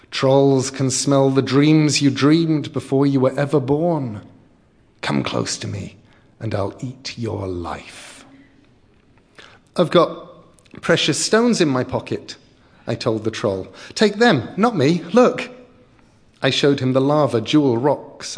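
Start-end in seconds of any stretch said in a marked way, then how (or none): 0.1-8.2 menacing troll. Acted. Troll lures child. 9.7-15.5 put-on high, loud frightened kid; pleading child. Child bargains with troll.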